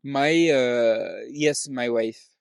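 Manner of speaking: slow, put-on French accent. Dad addressing his wife, slow French accent. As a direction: draw it out in a mock French accent. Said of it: "if I wanna do French".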